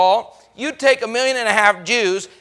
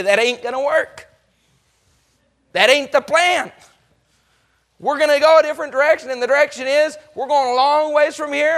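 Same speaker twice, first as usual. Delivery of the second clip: firm refusal; 3 semitones higher than usual. Acted. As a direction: plant your feet and refuse. Moses refusing Pharaoh, firm.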